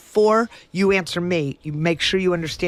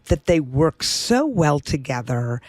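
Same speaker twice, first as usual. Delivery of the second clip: slow, sugary fake-sweet politeness; honeyed mock kindness, slowed down; sweet with a smile; slower than usual. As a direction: smile through a polite jab. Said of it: "very sweet, with a big smile on my face".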